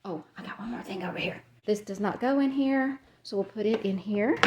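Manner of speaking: breathless, quick and quiet; out of breath. Real, not acted. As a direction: talk while short of breath. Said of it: "Sorry, I'm out of breath".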